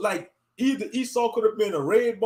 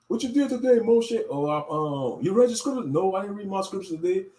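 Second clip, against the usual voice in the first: a preacher berating a friend over video games; mock zealot scolding; 6 semitones higher than usual. Acts zealot scolding friend Moshe.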